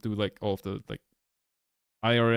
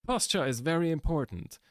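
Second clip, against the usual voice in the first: mock-professional narration, pitched higher; professional voiceover; 7 semitones higher than usual. Shown as a demonstration. Sampling a planned posture video, professional voiceover. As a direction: deliver it like an explainer video's opening. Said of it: "very professional sounding".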